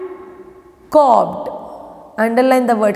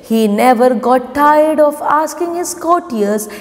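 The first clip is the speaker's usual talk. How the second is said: story read-aloud. Acted. Teacher reading the lesson for pupils to follow, measured read-aloud. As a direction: read it out word by word for children.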